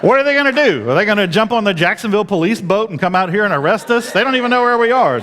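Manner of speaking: high, fast mocking disbelief; scoffing laugh. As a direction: laugh off the threat, rushing it. Scoffing at police threat.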